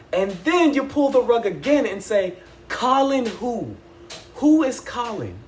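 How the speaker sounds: high, loud incredulous rant at the show; worked-up fan rant; exasperated rant. Retold or imitated. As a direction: demand answers, half laughing in disbelief. Retold outburst at the show.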